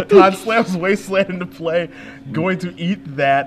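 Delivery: loud, slowed, hyped call; excited play call. Real, not acted. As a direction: hype up the big play. Excited call after laugh.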